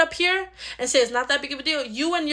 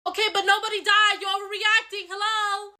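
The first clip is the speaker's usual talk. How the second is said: dismissive; 7 semitones higher than usual. Acted. Sibling dismisses the anger.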